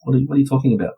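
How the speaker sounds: mildly exasperated plea of innocence; pleading innocence. Retold or imitated. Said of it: "I'm pleading my innocence".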